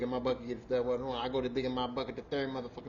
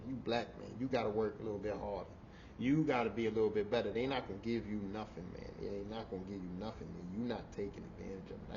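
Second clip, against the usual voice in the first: mentor speech; 7 semitones lower, 9 dB quieter than usual. Retold or imitated. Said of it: "get your shit together speech".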